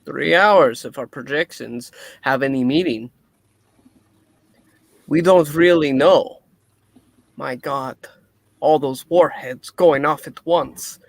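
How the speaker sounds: put-on light Russian accent scientist; a Russian doctor, lightly voiced. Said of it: "maybe my Russian accent will go too".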